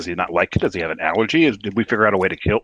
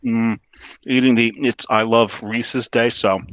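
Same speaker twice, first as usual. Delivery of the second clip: talking through a mouthful; mouth full; slower than usual. Real, not acted. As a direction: speak around a bite of candy. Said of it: "eating something".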